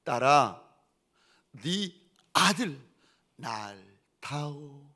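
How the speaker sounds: very slow, solemn divine command; voice of the Lord. Retold or imitated. The Lord to a mother at dawn prayer, slow and commanding. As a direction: draw each word out with weight. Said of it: "주님이 찾아오셔서 자기한테 그러시더라는 거예요".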